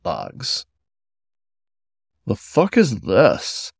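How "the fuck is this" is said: chuckling. Acted. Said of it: "asked with a chuckle".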